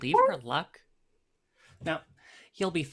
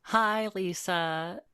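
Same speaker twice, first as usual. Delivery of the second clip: sarcastic greeting. Acted. Cold greeting to rival.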